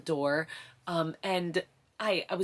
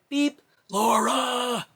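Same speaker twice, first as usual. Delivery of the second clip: higher, slower, louder mock pager call; slow drawn-out beep; 7 semitones higher, 7 dB louder, much slower than usual. Mother mimicking the midwife's pager on the third call, drawn out. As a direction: drag out the beep and the name, exaggerated. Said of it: "Third time".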